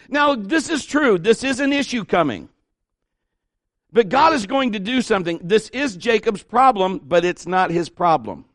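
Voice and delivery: ordinary delivery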